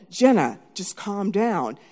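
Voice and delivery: slow, contained plea to a sister; measured calming. Retold or imitated. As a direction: keep it at normal volume and slow it down. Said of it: "And she was heightening".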